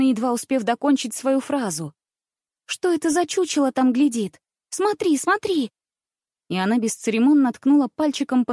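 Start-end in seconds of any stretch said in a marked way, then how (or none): 2.7-5.7 startled pointing. A narrator's reading.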